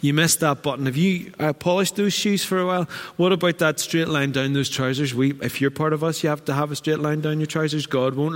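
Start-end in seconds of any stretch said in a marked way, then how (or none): 0.0-5.1 nitpicking religion. Retold or imitated. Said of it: "pointed and said".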